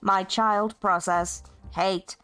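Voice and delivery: a lightly voiced, haughty machine villain ordering its minion; villain AI demanding its minion smash the TV; bitter villain AI. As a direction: command the minion like a petty tyrant AI.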